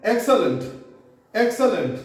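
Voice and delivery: "excellent" as EK-suh-lunt; both later e's of "excellent" as a weak "uh"; reduced E sounds. Shown as a demonstration. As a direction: say "excellent" with schwa in the last two syllables. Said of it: "दोनों ही ई से अ sound produce करनी है".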